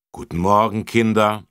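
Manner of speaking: loud friendly greeting; policemen greeting. Acted. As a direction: greet the class heartily. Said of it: "sagten die Volkspolizisten und grüßten".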